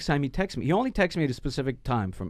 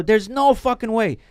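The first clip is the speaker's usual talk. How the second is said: disbelief; 9 semitones higher, 5 dB louder than usual. Real, not acted. Disbelief at the money.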